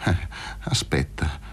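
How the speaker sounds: low, slow, understated sneer. A narrator's reading. Luca doubting his friend's courage, low slow sneer. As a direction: draw it out with dark mockery. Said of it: "sghignò Luca Fazio".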